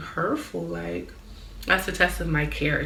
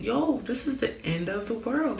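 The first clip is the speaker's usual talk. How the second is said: higher-pitched, overwhelmed exclamation; retold dismay; 6 semitones higher than usual. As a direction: act out mild alarm at disaster. Voices past panic at collapsing life.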